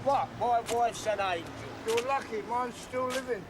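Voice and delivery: slurred tipsy talk; drunk. Acted. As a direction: talk like you've had a few. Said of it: "I must be as drunk as you are".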